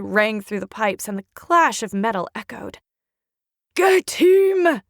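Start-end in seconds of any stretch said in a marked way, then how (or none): 3.7-4.8 loud barked order; soldier's shout. Acted. Soldier commands attack on Young, loud shout. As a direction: bark the order at the men. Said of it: "a soldier shouted".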